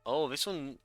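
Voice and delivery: ordinary talk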